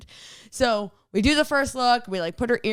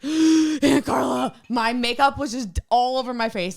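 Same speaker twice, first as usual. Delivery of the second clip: niece panicking about her ruined makeup; panicked niece; 4 semitones higher, 3 dB louder than usual. Retold or imitated. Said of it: "and she goes".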